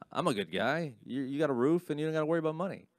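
gruff provider dad. Retold or imitated. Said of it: "my dad was like".

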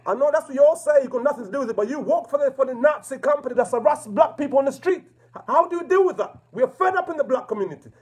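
real angry shouting at the call handler. Real, not acted. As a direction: shout down the phone at the operator. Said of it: "I'm sorry if I'm shouting at you".

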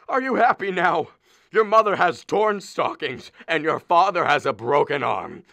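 martyred husband scolding his wife; aggrieved complaint. Acted. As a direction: rub the hurt in her face.

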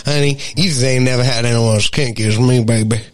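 hammed-up kinky flirt; mock seductive. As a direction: ham up a sultry come-on. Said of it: "I've listened to you time and time again".

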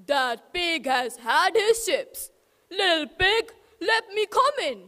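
lightly voiced wolf demanding entry; wolf at the door.

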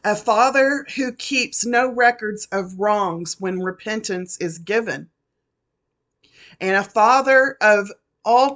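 holding back tears with long pauses; choked up but pressing on through the prophecy; fighting back tears. Real, not acted. Preacher fighting tears while reading God's word to listeners, choked up. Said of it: "And I'm gonna try not to cry".

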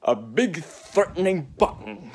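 slow reveal. Shown as a demonstration. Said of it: "repeated button line".

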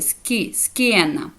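"Скі, ск'єна" with a hard sk, h dropped; silent H. Shown as a demonstration. Teacher showing learners the silent h, hard sk in "Скі, ск'єна". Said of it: "Тобто ака опускається".

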